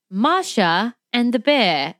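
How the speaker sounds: drawn-out Russian-accented cartoon girl; Russian accent, words stretched out; little Russian cartoon accent. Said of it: "little accent like this".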